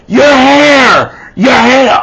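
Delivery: high, loud warning yell; alarmed shout. Acted. Bystanders warn of burning hair.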